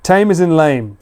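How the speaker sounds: "Tame" as taym, matching "lame"; "Tame" with a long English A; rhyming pronunciation. Shown as a demonstration. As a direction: say "Tame" with one syllable, like "lame". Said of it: "it's a word that rhymes".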